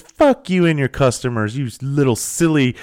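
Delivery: retold scornful abuse; imitated angry insult. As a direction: act out a haughty woman lashing out. Retold woman insulting shop owner.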